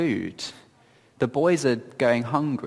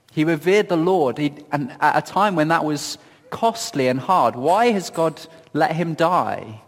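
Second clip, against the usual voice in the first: pitched up, questioning and exasperated; voicing her frustration; 4 semitones higher than usual. Widow asking why God let him die, exasperated. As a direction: press the questions like a wronged widow. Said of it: "You can hear her frustration".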